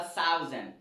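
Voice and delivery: "thousand" with an s sound for the th; South African pronunciation. Retold or imitated. Teacher tells how South Africans say it, imitated pronunciation. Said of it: "les Sud-Africains prononcent ça".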